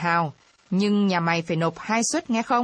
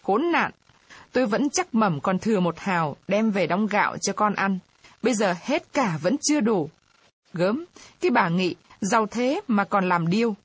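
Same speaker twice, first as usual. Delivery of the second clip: mild tearful grumble, pitched up; on the verge of tears. Acted. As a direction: pout and whimper the complaint. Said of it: "Chị Dậu lại mếu".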